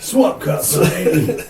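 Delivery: thrilled and laughing; excited. Real, not acted. Excited at trailer idea.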